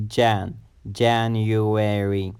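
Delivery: Jan with the A of black, then January drawn out; January slowly, A as in black; short A sound. Shown as a demonstration. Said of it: "an a sound like in the word black".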